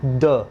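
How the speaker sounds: द said as a short "thuh". Shown as a demonstration. Teacher shows students the right sound. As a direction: clip it to "thuh". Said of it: "द बोलना है".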